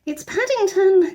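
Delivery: high slow urgent cry; high anxious girl's call. A narrator's reading. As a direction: call out in worry. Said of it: "cried Judy".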